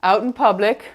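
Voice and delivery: muffled through a face mask; talking behind a mask. Real, not acted. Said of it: "let's go ahead and remove the mask".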